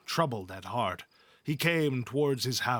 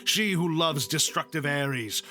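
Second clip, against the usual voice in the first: aggrieved outcry; 2 semitones higher than usual. Acted. Hephaestus calls the gods to see his shame, raised outcry. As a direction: cry out wronged to the gods. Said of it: "He gave a mighty shout".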